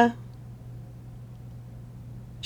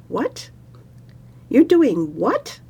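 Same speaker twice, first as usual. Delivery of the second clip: incredulous; 4 semitones higher, slower than usual. Acted. Parvati incredulous at meditation.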